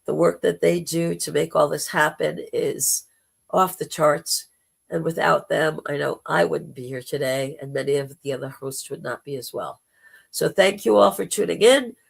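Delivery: hoarse, gravelly throat; rough, gravelly speaking voice. Real, not acted. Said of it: "putting up with my gravelly voice".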